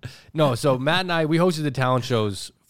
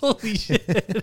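shocked exclamation; 7 semitones higher, much slower than usual. Real, not acted. Shocked at crude joke.

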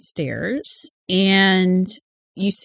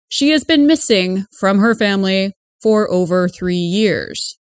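measured news anchor delivery; radio news read; 2 semitones lower than usual. Acted. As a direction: report it like a local radio newscaster. Reads radio news report.

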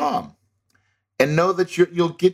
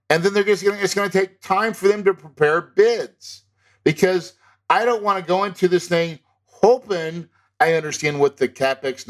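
firm, insistent, a little higher, telling the broker how it is; conviction; 4 semitones higher than usual. Shown as a demonstration. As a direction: stand your ground and own every word. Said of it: "You see that conviction in my voice".

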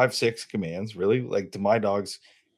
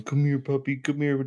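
higher, sing-song call to a puppy; coaxing a puppy; 7 semitones higher than usual. Retold or imitated. Squatting down, calling a puppy to come. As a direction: coax the pup in, squatting down.

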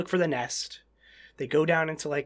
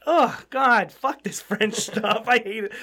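comic exasperation; 4 semitones higher, slower than usual. Retold or imitated. Mock exasperation at French scenes.

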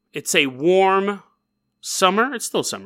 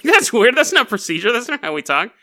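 mock cop; 7 semitones higher, 4 dB louder than usual. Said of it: "the cops are like".

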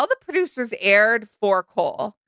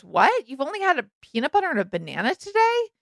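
confused; 5 semitones higher than usual. Retold or imitated. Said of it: "he looks confused and says".

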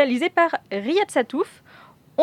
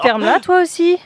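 louder, higher bossy order; mock angry snap; 5 semitones higher, 6 dB louder than usual. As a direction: bark it at him like a tyrant boss. Boss snaps at Flo.

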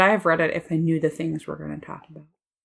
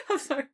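big burst of laughter, apologizing; real loud guffaw breaking out; 9 semitones higher, 8 dB quieter, faster than usual. Real, not acted. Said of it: "edit out that guffaw there".

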